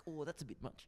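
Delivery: soft, meek objection; mild protester. Retold or imitated. Host imitating lovely protesters, in a soft mild voice. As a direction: object very softly and politely. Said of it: "even their protesters are like".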